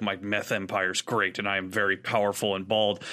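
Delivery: lightly voiced grand villain, dragging it out; mock Walter. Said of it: "and he's all like".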